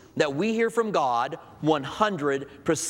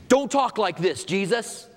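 rebuking Peter; 4 semitones higher than usual. Retold or imitated.

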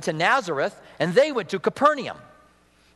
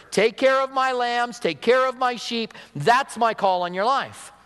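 gentle Jesus; 4 semitones higher than usual. Retold or imitated. Jesus gently recommissions Peter.

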